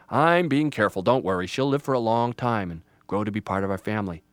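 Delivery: loud, hearty father voice; reassuring dad. Acted. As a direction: brush off the worry with confidence.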